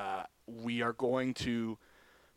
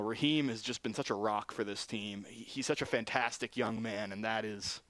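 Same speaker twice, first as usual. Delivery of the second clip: lower, softer voice with real sadness; getting emotional; 3 semitones lower, 3 dB quieter than usual. Real, not acted. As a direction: hold back tears for a teammate. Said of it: "sorry if I'm getting emotional".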